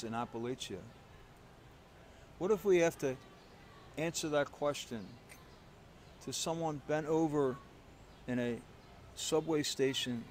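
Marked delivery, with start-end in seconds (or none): 2.4-10.2 rising preacher challenge. Real, not acted.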